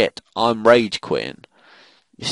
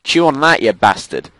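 loud, high-pitched jeer; triumphant taunt; 5 semitones higher, 6 dB louder than usual. Real, not acted. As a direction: throw it at a beaten enemy. Taunting enemy after a kill.

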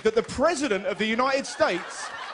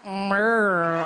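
mum's murr; 3 semitones lower than usual. Retold or imitated. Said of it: "looked at me and went".

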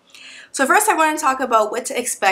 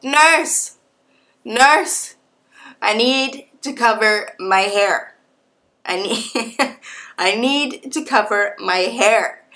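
urgent call; 2 semitones higher, much slower than usual. Retold or imitated. Woman urging the nurse to help her cover her hair, urgent. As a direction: call out like you just realized your hair is showing.

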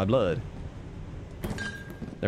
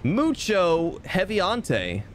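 mock Spanish; 7 semitones higher, much slower than usual. That means very heavy.

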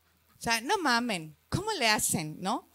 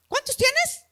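pregunta curiosa; 12 semitones higher, 3 dB louder than usual. Retold or imitated. Diálogo con desconocido.

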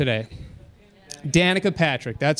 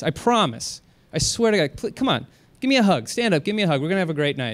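acted apology. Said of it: "I'd have to do my best acting now".

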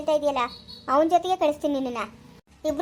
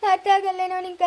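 crying father; 2 semitones higher than usual. Acted. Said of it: "ನೀನ್ ಅಳ್ಬೇಡಪ್ಪ".

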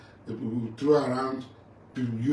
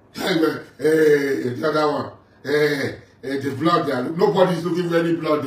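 loud scoffing; 3 semitones higher, 6 dB louder than usual. Real, not acted. Scoffing at blood talk.

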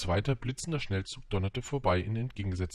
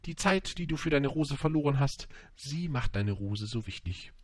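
lightly voiced storybook fox; fox imparting wisdom; 6 semitones higher than usual. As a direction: teach it gently as the fox. Fox teaches the prince.

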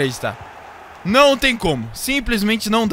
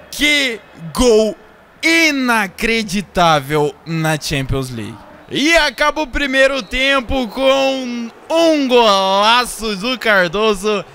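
ordinary talk

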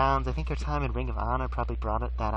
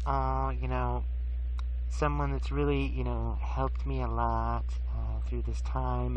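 mock choked up; slower than usual. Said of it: "she gets a little bit choked up".

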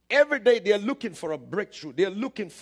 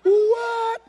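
stunned what; 9 dB louder than usual. Retold or imitated. Stunned as the chicken comes alive.

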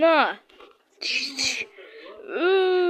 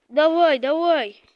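loud urgent call, pushing a teammate on; excited call to hurry; urgent shout; 5 dB louder than usual. Real, not acted. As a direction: yell at them to go now. Urging teammate on.

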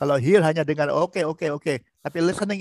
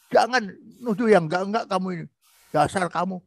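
emotional outburst. Shown as a demonstration. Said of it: "Ya, itu emosional".

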